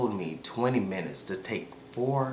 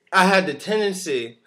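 excited; 5 semitones higher, 8 dB louder than usual. Real, not acted. Finds the word, excited.

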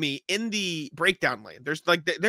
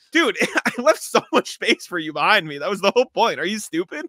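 exasperated rant; 4 semitones higher, 4 dB louder than usual. Retold or imitated. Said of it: "I'm like".

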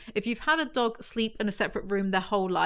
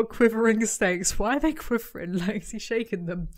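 amused disgust. Real, not acted. Disgusted, laughing reaction.

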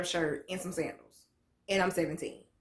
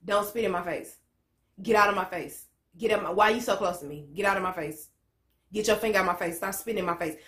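firmer retake; faster than usual. Retold or imitated. Teen pushing back at the officer, firmer retort. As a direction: say "Don't spit in my face" with more push. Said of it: "Well, more like this".

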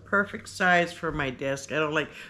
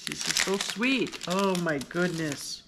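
tearful. Real, not acted. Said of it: "I said I wasn't gonna cry".

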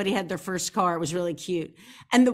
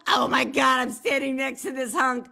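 giddy; 2 semitones higher than usual. Retold or imitated. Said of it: "like, so giddy".

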